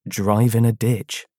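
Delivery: slowly repeating his own line; slow self-mocking mutter. Shown as a demonstration. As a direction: drag the words out, unimpressed. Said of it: "my own shit comeback".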